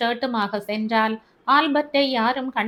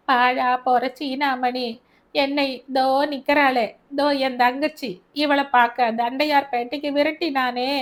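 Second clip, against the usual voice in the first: bitter cursing mother; 3 semitones higher than usual. Acted. Mother cursing the servant to Albert, bitter and raised. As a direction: spit out the curse on him.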